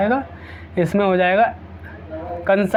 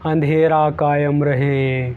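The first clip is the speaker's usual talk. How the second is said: villain catchphrase; 4 semitones lower, much slower than usual. Retold or imitated. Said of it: "Shaktimaan में आता था किलमिस".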